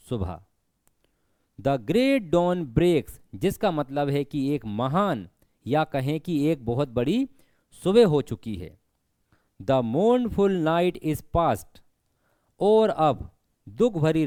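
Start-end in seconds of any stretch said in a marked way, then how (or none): 1.6-3.2 each word drawn out, very slow; slow poem recitation. Shown as a demonstration. Teacher reciting a poem line to students, very slow. 9.6-11.8 each word drawn out, very slow; slow poem recitation. Shown as a demonstration. Teacher reciting a poem line to students, very slow.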